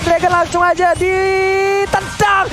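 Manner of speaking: rising excited play-by-play; esports caster. Real, not acted. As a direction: build the call to a shouting climax. Play-by-play climax. (komentator esports yang makin berteriak)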